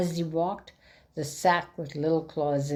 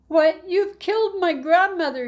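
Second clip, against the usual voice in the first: high, loud accusing cry; raised, high-pitched outraged cry; cried out; 8 dB louder than usual. Acted. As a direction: cry it out in mock horror. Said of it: "he cried".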